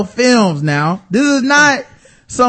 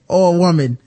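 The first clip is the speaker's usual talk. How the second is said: tossed off lightly imitating a matter-of-fact aside; understated, deadpan mimicry. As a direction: quote it casually, as if nothing were odd. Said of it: "so matter-of-factly".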